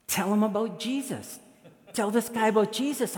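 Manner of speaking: high, insistent prompting voice; inner divine voice. Retold or imitated. God's voice telling pastor about the intruder, high prompting. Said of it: "I hear this voice again".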